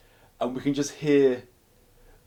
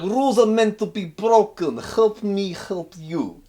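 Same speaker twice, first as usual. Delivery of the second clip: much higher, louder, slow persuasive pitch; scheming Russian prisoner; 11 semitones higher, 8 dB louder, slower than usual. Retold or imitated. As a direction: sell the deal like a sly con man. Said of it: "He's like".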